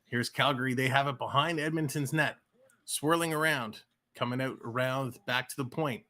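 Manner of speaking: steady, running hockey commentary; hockey announcer following the action; live play-by-play. Acted. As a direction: call each pass as it happens.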